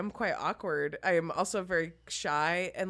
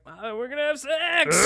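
slow, higher, put-on seductive voice; nervous sex voice; 8 semitones higher, 6 dB louder than usual. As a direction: play it awkward and try-hard sexy. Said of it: "a voice that people tend to fall into when they're nervous".

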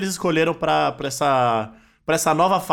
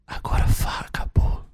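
breathy whisper right at the lips; S1 acts out the line one centimetre from a kiss, whispered; seductive whisper. Shown as a demonstration. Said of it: "dá a entonação aí".

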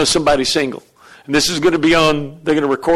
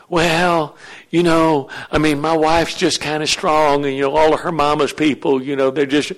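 softer, lower, wavering mock husband; hesitant excuse-making; 3 semitones lower, 4 dB quieter than usual. Pastor mimicking a husband afraid of his wife's family, hesitant. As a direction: hem and haw timidly.

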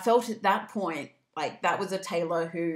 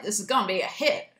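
put-on Nashville accent. Label boss predicting a hit song, Nashville accent. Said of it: "I don't know why they had that accent".

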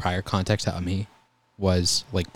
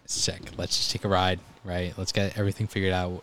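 softer, gentle calming tone; reassuring; 6 dB quieter than usual. Retold or imitated. EMT calming an upset patient before the ride, soft and reassuring. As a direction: soothe them like a nervous patient.

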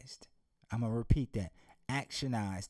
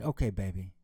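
father's voice; 7 semitones lower than usual. Acted. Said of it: "the daddy said".

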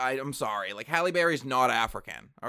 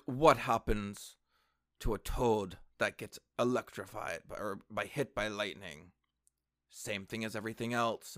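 badly faked African accent, measured and deliberate; 3 semitones lower, 4 dB quieter than usual. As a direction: deliver it in a clumsy, low-key African accent. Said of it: "I said a shitty African accent".

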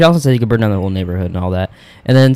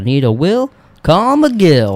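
mock ad jingle; 7 semitones higher, 4 dB louder, much slower than usual. Ad slogan read.

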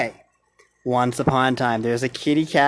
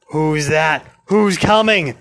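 scared; 5 semitones higher, 6 dB louder than usual. A narrator's reading. Scared pirate in story.

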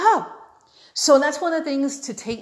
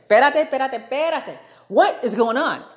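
higher, punchy disbelief; indignant outburst; 5 semitones higher, 4 dB louder than usual. Retold or imitated. Customer seeing a man jump the line, indignant outburst. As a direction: burst out in exasperated protest. Outraged reaction to being cut.

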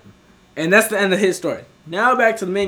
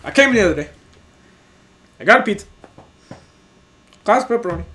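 slow, halting delivery with long pauses; really slow talking; 5 semitones higher, 7 dB louder, much faster than usual. Retold or imitated. Customer explaining his order to the worker, really slow. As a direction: imitate a customer spelling it out slowly. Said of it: "starts speaking to me really slow".

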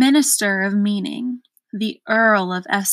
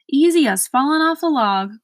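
higher, louder cheerful cry; cried out; 5 semitones higher, 4 dB louder than usual. A narrator's reading. Earl boasting to Milo, higher and loud. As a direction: toss it off brightly. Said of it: "cried the earl".

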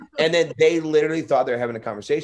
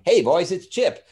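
Chip the elf; 4 semitones higher, 3 dB louder, slower than usual. Acted. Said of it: "his, his name was Chip".

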